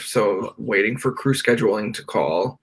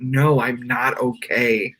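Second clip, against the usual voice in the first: breaking down; slower than usual. Retold or imitated. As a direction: let it crack and fall. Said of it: "and I went".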